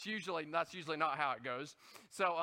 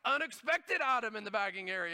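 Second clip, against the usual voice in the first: machine voice; 3 semitones higher, 5 dB louder than usual. Retold or imitated. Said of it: "it's screaming at you".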